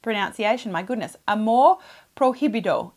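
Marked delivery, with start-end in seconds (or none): 1.3-2.9 a song title said carefully with English r; gringo accent spanish. Shown as a demonstration. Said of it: "It's really not that hard".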